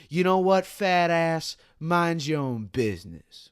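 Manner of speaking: loud, high snap at another customer; angry customer telling off a bystander; rude snap. Retold or imitated. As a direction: bark it at her.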